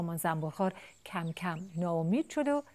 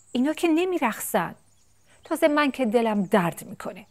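high, loud little chick whining; scared chick; 6 semitones higher, 8 dB louder than usual. Acted. Chick pleading to mother bee-eater, high and whiny. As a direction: play the frightened chick making excuses. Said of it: "جوجه ترسید".

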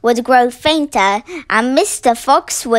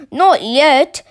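shouting. Acted. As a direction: call it over the noise. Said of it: "shouted Boggis".

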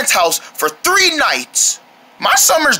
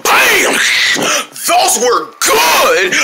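excited; 4 semitones higher, much slower than usual. Acted. Tastes snack in ad.

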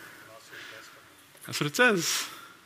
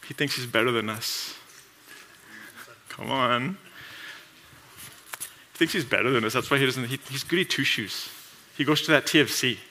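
softer, muttering coworkers behind his back; muttered gossip; 3 semitones lower, 8 dB quieter than usual. Retold or imitated. Coworkers grumbling about the believer, softly muttered. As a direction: grumble it under your breath.

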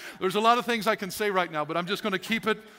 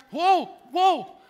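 startled, higher whoa, whoa; overwhelmed whoa; 7 semitones higher, 5 dB louder than usual. Retold or imitated. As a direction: back off as things pile up. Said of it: "and you're like".

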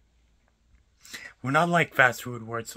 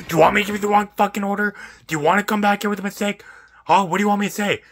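loud, high, rapid-fire questions; exasperated rant; 5 semitones higher, 4 dB louder, faster than usual. Real, not acted. Barista-style pizza worker ranting at a complaining customer, exasperated. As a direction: let the frustration pour out fast.

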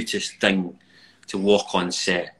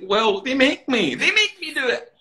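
mock defensive; 6 dB louder, slower than usual. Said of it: "I was like".

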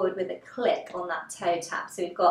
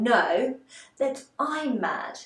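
mildly shocked, stretched-out question; 3 semitones higher, much slower than usual. Acted. Alice asking the cat, demonstrated in class, mildly shocked. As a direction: finish the question slowly, lightly taken aback. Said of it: "we're shocked".

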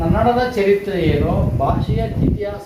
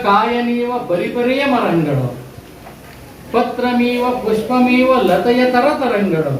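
poem recitation; 2 semitones higher, slower than usual. Acted. Teacher reciting the verse to pupils, slow and sing-song. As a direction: lift each line and stretch it like a poem for children.

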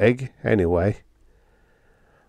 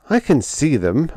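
raised, higher-pitched holler; 7 semitones higher, 3 dB louder than usual. A narrator's reading. Sparks recoils from the poached eggs, hollering. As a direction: holler back in exasperation. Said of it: "I hollered".

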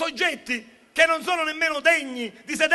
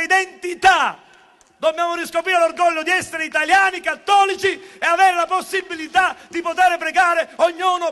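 loud rousing rally cry; rally the crowd with pride; booming balcony speech; 3 semitones higher, 7 dB louder than usual. Real, not acted.

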